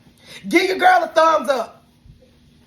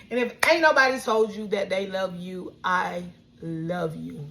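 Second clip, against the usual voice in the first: low, soft and sincere, slowing at the end; tender sign-off; 8 semitones lower, 4 dB quieter than usual. Real, not acted. Vlogger telling viewers she loves them, tender and sincere.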